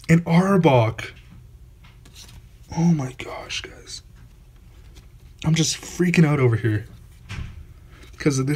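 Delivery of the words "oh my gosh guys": awed whisper. Real, not acted. Stunned by Zapdos holo.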